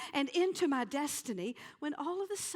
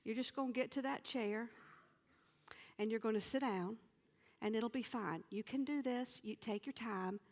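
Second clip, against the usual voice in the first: self pep talk; 3 semitones lower, 6 dB quieter, faster than usual. Retold or imitated. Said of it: "I said".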